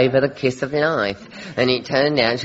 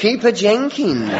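laughing; 9 semitones higher than usual. Real, not acted. Punchline delivered through laughter.

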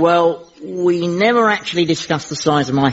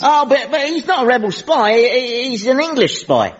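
high, stammering plea; alarmed protest; 7 semitones higher than usual. Acted. Companion pleading against an arrest, alarmed and stammering. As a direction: blurt out an excuse in a raised pitch.

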